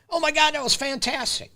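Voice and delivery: high, bright-eyed gush of delight; excited reaction. Shown as a demonstration. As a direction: react like the best news ever. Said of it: "you're not telling them what to do".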